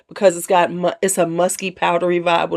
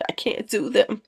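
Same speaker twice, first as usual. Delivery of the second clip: whisper; 2 semitones higher, 6 dB quieter than usual. Real, not acted. Rejecting heavy gourmand perfumes.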